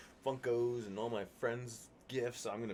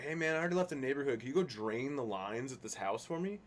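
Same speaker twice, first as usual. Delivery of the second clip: mock lazy builder; 4 semitones higher than usual. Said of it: "all the builders like".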